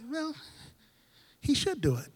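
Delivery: mock the comfortable churchgoer; a hint of smug entitlement; complacent mock. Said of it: "we're kind of like".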